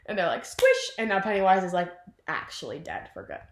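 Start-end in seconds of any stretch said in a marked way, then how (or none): 0.4-0.9 very high little squeak; playful squish effect. Retold or imitated. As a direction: squeak it like a cartoon splat. Sound effect of crushed heart.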